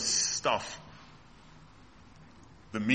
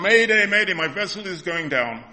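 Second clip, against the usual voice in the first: mayday call; 2 semitones higher, 4 dB louder than usual. Pretend. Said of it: "call out to him".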